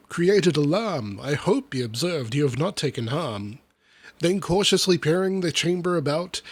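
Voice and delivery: lively, rhythmic storybook reading; verse recitation. Acted. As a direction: read the rhyming tale with bounce. Reads comic verse aloud.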